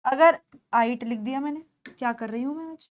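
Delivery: quick, hushed self-reproach; soft aside after a slip; talking to herself. Real, not acted. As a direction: say it fast and low in volume, to yourself. Muttering to herself over a slip.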